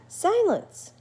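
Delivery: the bat parrots it back brightly; bat echoing. Acted. Bat cheerfully echoes the word.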